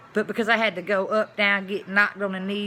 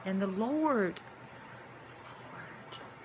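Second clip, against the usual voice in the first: soft prayerful Lord; 8 dB quieter, much slower than usual. Real, not acted. Invoking the Lord.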